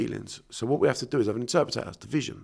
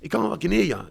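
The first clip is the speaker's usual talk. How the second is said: higher, louder exasperated jab; exasperated punchline, higher and louder; exasperated outburst; 7 semitones higher, 4 dB louder than usual. Real, not acted. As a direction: hit it with scorn.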